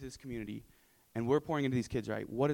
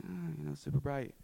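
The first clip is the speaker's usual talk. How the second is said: put-on higher-pitched, lightly whiny kid quote; imitating little kids; 4 semitones higher than usual. Speaker mimics kids looking at the noon sun, mock complaint.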